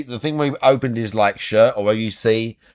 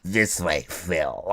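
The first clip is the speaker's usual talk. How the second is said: low seductive murmur; 6 semitones lower, 9 dB quieter, much slower than usual. Retold or imitated. Kat seductive line.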